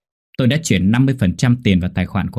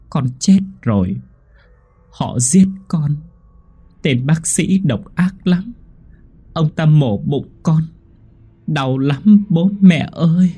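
put-on high, slow child voice from beyond; child's ghost voice; 7 semitones higher, slower than usual. Dead son speaking through the fortune teller to his parents, slow and high. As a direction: speak as a dead little boy, slow and plaintive. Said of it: "một giọng nói trẻ con cất lên".

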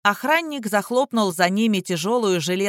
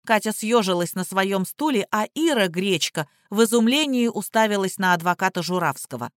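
usual speaking voice

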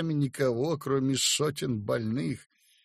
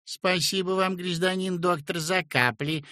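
sweet, higher fawning sing-song; flattering singsong; 5 semitones higher than usual. A narrator's reading. Peasant woman fawns over the doctor, singsong. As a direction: sing the thanks to flatter him. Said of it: "и запела льстиво".

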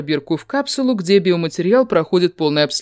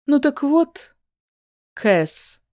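dismissive; 9 semitones higher, much slower than usual. A narrator's reading. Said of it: "Намеренно игнорирует моё замечание Фина".

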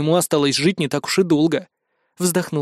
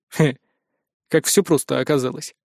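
smirking; 3 semitones lower than usual. Acted. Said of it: "усмехнулся я".

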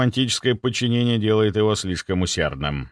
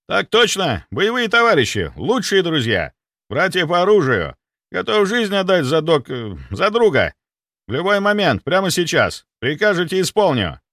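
loud, high, eager military report; zealous soldier; 7 semitones higher, 4 dB louder than usual. Acted. Security chief vowing loyalty, loud and eager. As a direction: overeager servant.

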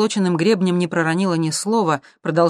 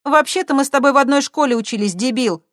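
higher, louder, mocking; scornful retort; 10 semitones higher, 6 dB louder than usual. A narrator's reading. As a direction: put him down with contempt. Girl mocks blond guy. (презрительно, громче и выше)

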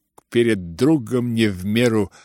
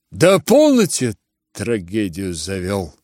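exasperated shout. Acted. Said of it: "крикнул Ганя".

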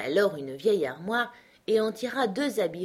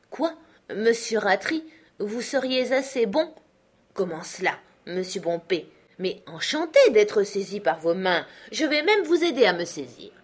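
mocking uncle Benjamin; 2 semitones higher, 4 dB louder than usual. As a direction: egg him on, all sweet mockery. Uncle keeps goading creditor. (oncle moqueur, voix plus aiguë et ironique)

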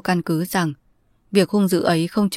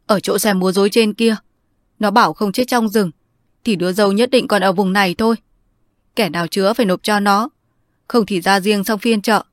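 raised, louder tearful speech; a son crying to his aunt, voice raised; 3 semitones higher, 3 dB louder than usual. Acted. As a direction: blurt it out through tears. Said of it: "John khóc rừng rức".

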